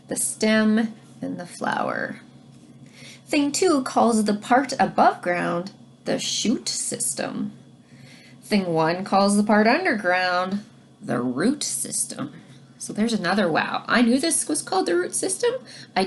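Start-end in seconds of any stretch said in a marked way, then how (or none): 3.3-12.3 put-on reading to children. Teacher reads rhyming book aloud.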